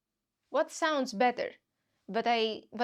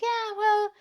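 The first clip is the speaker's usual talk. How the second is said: comforting the clerk, a bit higher; mock comforting; 4 semitones higher than usual. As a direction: reassure the person who hurt you. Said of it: "You end up going like".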